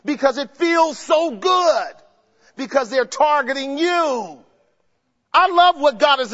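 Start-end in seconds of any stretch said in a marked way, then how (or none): 0.1-1.9 slow, drawn-out shout; preaching shout. Real, not acted. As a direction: stretch it out and shout it.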